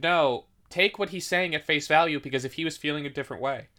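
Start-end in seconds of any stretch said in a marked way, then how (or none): 2.2-3.7 burp breaking into the words; talking through a burp. Real, not acted. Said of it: "sorry, I had to burp".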